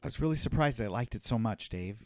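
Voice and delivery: hoarse, worn-out voice from drinking; losing voice. Real, not acted. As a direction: talk through a voice that's going. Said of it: "I'm just losing my voice".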